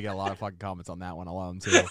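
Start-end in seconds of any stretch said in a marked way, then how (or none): none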